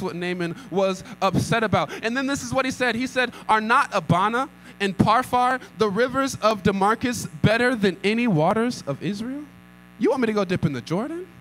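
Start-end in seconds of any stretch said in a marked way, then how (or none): 3.5-9.4 angry. Acted. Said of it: "went off in anger". 10.0-11.3 quick, incredulous rise on Jordan; scoffing question. Acted. Naaman scoffing at the prophet's order, fast and incredulous. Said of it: "went off in anger".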